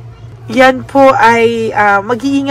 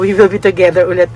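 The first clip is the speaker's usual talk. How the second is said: quickly rattling off the slip with ulit, a little lower; quick rerun of the slip; 4 semitones lower, much faster than usual. Shown as a demonstration. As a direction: rush back through "We will be together ulit" as the mistaken Tagalog version. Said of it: "Parang, parang natagalog ko eh".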